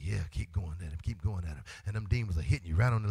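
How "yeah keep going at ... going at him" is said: lower, softer sly devil voice; a quiet gloating nudge; Satan egging on. Acted. Satan urging demons on against the believer, lightly voiced. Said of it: "Satan like".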